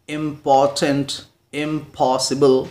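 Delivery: "इंपॉर्टेंट, इम्पॉसिबल" slowly, beat by beat; split into syllables. Shown as a demonstration. Teacher recaps word list for learners, syllables sounded out slowly. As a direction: lightly separate each syllable of "इंपॉर्टेंट, इम्पॉसिबल". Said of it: "break करते हैं, तोड़ते हैं".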